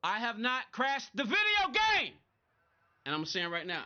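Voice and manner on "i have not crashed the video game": loud, slow, higher exasperated denial; exasperated retort. Real, not acted. Streamer snapping back at chat, loud and slow. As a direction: spell it out to a confused viewer.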